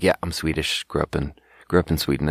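low, slightly muted mock admission; reluctant admission. Waiter admitting his origins to a table, mildly reluctant. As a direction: admit it reluctantly, voice sinking a little. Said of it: "And I have to admit it".

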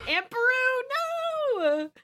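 long, high drawn-out mock cry; mock wail. Groaning at a friend's pun on the name, mock wail. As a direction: wail it in playful, drawn-out despair.

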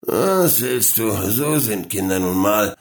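bored. Acted. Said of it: "entgegnete er gelangweilt".

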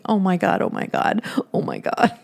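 breathless whispered panic, fading away; panicked whisper. Retold or imitated. Alone at the uncle's open coffin, whispering in panic. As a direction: whisper it to yourself in dread.

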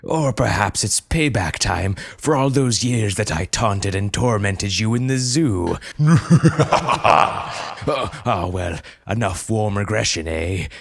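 a hint of a theatrical, gloating villain with a laugh; lightly voiced villain. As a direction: gloat over the enemy, then cry the challenge. Zookeeper villain monologue.

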